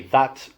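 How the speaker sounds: "that" with a clean stopped t; "that" with a standard English t; crisp final T. Shown as a demonstration. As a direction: end "that" on a firm t. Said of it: "They don't say".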